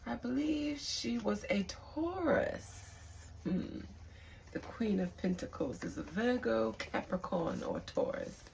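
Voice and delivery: put-on lightly kept-up jokey British accent; musing on her star sign in a half-hearted British accent; mock British accent. Vlogger joking about the queen's zodiac sign, light British accent. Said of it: "stop using that accent".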